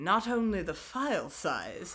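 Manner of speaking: low, slow, knowing, suggestive murmur.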